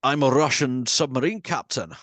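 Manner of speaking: lightly put-on film-star impression; hint of a famous Scottish actor's voice; Connery. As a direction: imitate a star who never drops his accent. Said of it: "Caine and Connery are on the same level".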